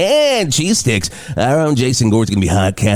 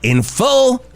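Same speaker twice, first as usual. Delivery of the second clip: announcer introduction; 2 semitones higher than usual. Pretend. Host introducing last moon mission's hero, grand announcer. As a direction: build up a star guest like an announcer.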